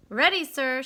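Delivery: loud, crisp reply; shouted answer. A narrator's reading. Stuart answering the referee, a loud crisp shout. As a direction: snap back ready like a sailor. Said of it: "shouted Stuart".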